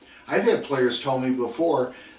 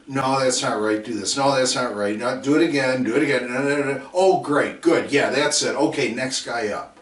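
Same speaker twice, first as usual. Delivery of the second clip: impatient coach yelling; 5 dB louder than usual. Retold or imitated. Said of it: "Too many times, a player".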